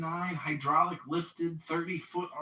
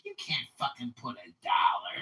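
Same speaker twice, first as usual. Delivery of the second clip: mock outraged clerk; 5 semitones lower than usual. Clerk refuses a dollar value.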